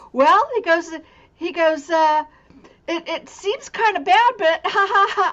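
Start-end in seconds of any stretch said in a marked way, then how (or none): 2.8-5.3 higher-pitched speech broken by giggling laughter. Retelling a dying man's words about a dream: imitating someone laughing. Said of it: "And he's laughing and laughing".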